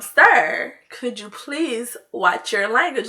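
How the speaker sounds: measured, courteous plea; slow down and ask very politely; polite request. Retold or imitated. Old lady asks nail tech again about his language, politely. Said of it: "She was so polite".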